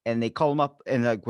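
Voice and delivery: normal talking voice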